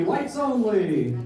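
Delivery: slow, drawn-out machine chime; racist washing machine. Shown as a demonstration. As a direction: drag it out like a finished wash cycle. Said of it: "my impression of a racist washing machine".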